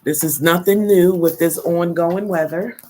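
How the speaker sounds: congested, stuffy-nosed voice; talking through a head cold; blocked nose. Real, not acted. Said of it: "I'm still a little congested".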